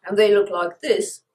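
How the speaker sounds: talking around a lozenge; mouth full. Real, not acted. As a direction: lozenge in mouth, slightly thick speech. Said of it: "Sorry, I've got a lozenge in my mouth".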